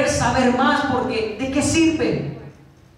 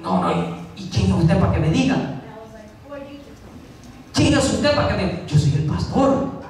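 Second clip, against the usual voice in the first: acting out an offended, prideful retort; indignant pulling of rank, mildly acted; proud, hot-tempered; 2 semitones lower than usual. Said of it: "si yo fuese orgulloso ... de temperamento fuerte". (réplica orgullosa e indignada, actuada)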